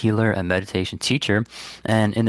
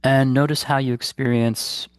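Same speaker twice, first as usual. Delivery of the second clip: calm, unhurried guidance with long pauses; guided meditation; 2 semitones higher than usual. Real, not acted. Meditation teacher guiding listeners to release guilt, calm and unhurried. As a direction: lead listeners gently inward, leaving space between phrases.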